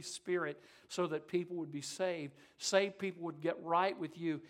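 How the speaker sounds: earnest, measured public prayer. Real, not acted. Preacher praying for every person in this place, earnest prayer. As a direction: lead the room in prayer, steadily.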